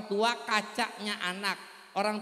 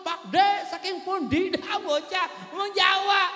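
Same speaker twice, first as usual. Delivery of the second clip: put-on child speaking Javanese; 9 semitones higher, 5 dB louder than usual. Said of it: "anak kecil ngomong".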